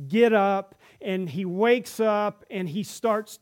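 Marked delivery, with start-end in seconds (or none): 0.1-0.8 louder, firm call to wake; firm command. Acted. Jesus commands the dead boy to get up, loud and firm.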